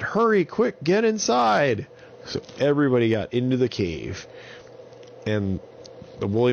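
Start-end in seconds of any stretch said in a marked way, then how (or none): 0.0-1.9 high, loud urgent command. Acted. Holly rushing everyone into the cave, high and urgent. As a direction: hurry them into the cave. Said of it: "So Holly said".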